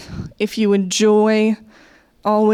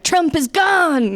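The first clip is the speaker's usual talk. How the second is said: mock cheer; 8 semitones higher, much slower than usual. Cheering the news, acted crowd.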